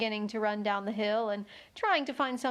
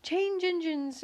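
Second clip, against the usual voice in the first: hoarse, higher horse voice; 8 semitones higher, slower than usual. A narrator's reading. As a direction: rasp it out hoarsely. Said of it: "a hoarse voice spoke next".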